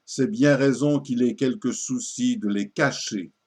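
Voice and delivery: measured, declaimed satirical verse; poetry recitation. Acted. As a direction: recite it as a mock-solemn verse tale. Déclame l'envoi du poème. (déclamation de poème satirique)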